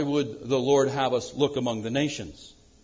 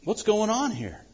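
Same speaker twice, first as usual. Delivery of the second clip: crying out to God; 6 semitones higher than usual. Retold or imitated. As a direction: implore God to act now. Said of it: "Habakkuk is crying out".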